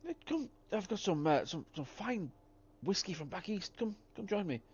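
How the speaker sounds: put-on crackly grateful old-timer; old prospector. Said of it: "an old prospector, uh, voice".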